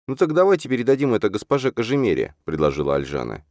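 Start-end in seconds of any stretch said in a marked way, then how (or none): 0.1-2.3 higher-pitched, lively heroine's voice; earnest young woman. A narrator's reading. Alzhana proposes handing it to her mistress, earnest.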